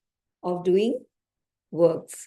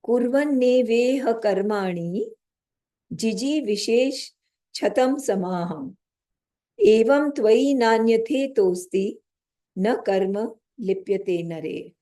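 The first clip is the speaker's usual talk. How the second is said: slow, measured chant of a Sanskrit verse; slow verse recitation. Shown as a demonstration. Teacher reciting scripture to the class, slow and measured. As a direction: intone each word of the verse deliberately.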